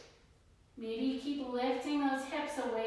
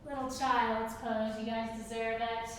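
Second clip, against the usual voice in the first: breathless after the flow; out of breath; 2 semitones lower than usual. Real, not acted. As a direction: talk while catching your breath. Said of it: "I'm out of breath".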